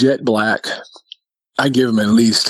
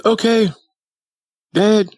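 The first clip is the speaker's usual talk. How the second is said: put-on high-pitched small boy voice; child voice, pitched way up; little brother; 11 semitones higher, slower than usual. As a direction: imitate a kid calling on Dad. Voicing little brother addressing Dad.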